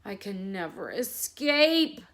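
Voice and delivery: slow, mild despairing lion; a touch of trapped lion gloom; understated hopeless lion; unhappy lion. Acted. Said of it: "thought the unhappy lion".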